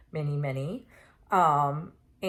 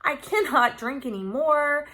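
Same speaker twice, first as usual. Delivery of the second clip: higher-pitched, flustered pushback; exasperated protest; 7 semitones higher than usual. Retold or imitated. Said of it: "And I'm like".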